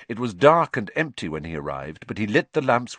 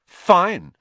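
haughty; 11 semitones higher, 10 dB louder than usual. A narrator's reading. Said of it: "said Hermione haughtily".

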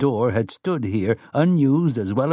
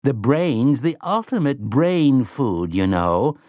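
mellow scholarly tone; 3 semitones higher, slower than usual. Acted. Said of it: "He had assumed a mellow, scholarly tone".

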